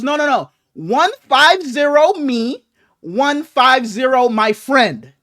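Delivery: slow, deliberate broken English imitating a foreign cashier. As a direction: spell out the numbers slowly in a mock foreign accent. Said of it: "her English was kinda, you know, a little so-and-so".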